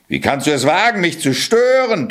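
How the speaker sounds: high, rising outrage; raging ogre. A narrator's reading. Ogre disturbed by the cat, raging. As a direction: rage at the intruder, pitch climbing. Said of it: "tobte der Oger".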